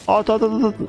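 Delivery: high, rapid-fire repeated command; excited urging. Real, not acted. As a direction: egg the unit on to shoot. Urging his unit to fire.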